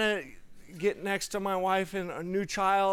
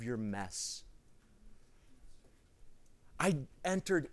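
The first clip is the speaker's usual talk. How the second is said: softer, lower, tender and unhurried; a hint of God's gentle voice; 3 semitones lower, 5 dB quieter than usual. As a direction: speak as a loving father soothing. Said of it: "and he was like".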